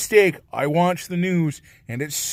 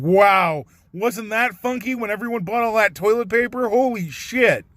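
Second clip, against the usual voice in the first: hint of amused disbelief; light, carefree marvelling; amused exclamation; 6 semitones higher than usual. Imagined future self laughing it off.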